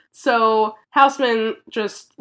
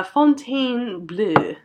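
French accent; slower than usual. Shown as a demonstration. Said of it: "I'm not pronouncing it right".

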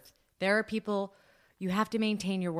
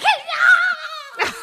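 grumpy cat's refusal; 11 dB louder than usual. Pretend. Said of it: "Lady will be like".

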